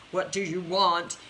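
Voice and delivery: slow, pointed demand in the style of Olivia Pope. Retold or imitated. Coach to client, a slow pointed demand. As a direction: press them like a TV fixer. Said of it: "Kind of like Olivia Pope in the show Scandal".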